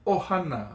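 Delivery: "Ohana" started promptly on a glottal catch. Shown as a demonstration. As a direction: begin the first vowel of "Ohana" crisply. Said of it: "start the A a little bit quicker".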